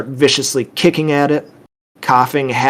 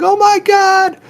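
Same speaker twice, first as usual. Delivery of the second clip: put-on high, loud child's scream; terrified high-pitched shriek; 6 dB louder, slower than usual. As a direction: scream in sheer terror. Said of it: "Abby just starts screaming".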